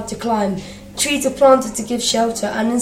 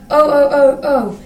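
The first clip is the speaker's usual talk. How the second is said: louder, higher mock scream; screaming trucks; 4 semitones higher, 5 dB louder than usual. A narrator's reading. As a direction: shriek it like shunted trucks. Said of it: "screamed the trucks".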